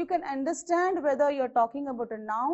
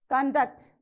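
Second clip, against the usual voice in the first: conDUCT, second syllable stressed; 3 dB louder than usual. Shown as a demonstration. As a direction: say "conduct" as a verb, weight on DUCT. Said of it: "it should be on the second syllable".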